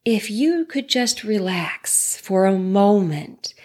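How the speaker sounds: whispered, slow and hushed. Real, not acted. Therapist soothing a troubled listener, whispered. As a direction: breathe the words out like a calming secret.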